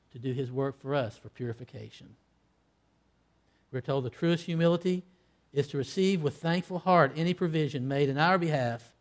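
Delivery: ordinary talk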